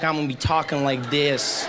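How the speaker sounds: lightly faked American accent; comic American accent after a short trip; put-on American accent. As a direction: mimic someone back from America with an American accent. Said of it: "go to America".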